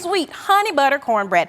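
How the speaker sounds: playful Southern drawl with some laughter; Southern accent. Shown as a demonstration. Cook repeating her dish name for the hosts, playful Southern accent. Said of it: "say it with a Southern accent".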